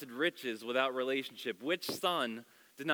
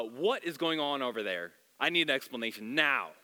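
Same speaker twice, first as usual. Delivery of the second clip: demanding; 4 dB louder than usual. Retold or imitated. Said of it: "it says demanded".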